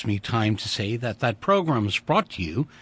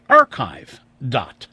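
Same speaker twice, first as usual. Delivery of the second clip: loud; 10 dB louder, slower than usual. Shown as a demonstration. Station plugs its archive site.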